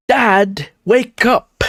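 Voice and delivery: high, urgent acted cry; calling out to wake. Daughter trying to wake her sleeping dad, high insistent call. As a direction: daughter pestering dad awake.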